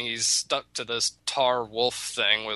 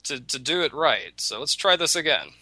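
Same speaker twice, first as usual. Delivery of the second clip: mock-polite, rising indignation, much higher; indignant rabbit; 3 semitones higher than usual. Rabbit lectures the tar wolf, huffy and high. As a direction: scold the silent wolf with prissy manners. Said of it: "Rabbit says".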